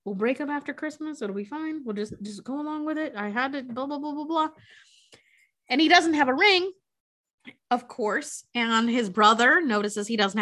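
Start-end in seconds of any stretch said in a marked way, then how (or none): 0.1-4.5 hushed, softer aside; mock whisper, much softer and slightly raised; imitating under-breath whispering. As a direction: murmur a hurried reassurance, as if covertly. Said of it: "kind of whispering under his breath".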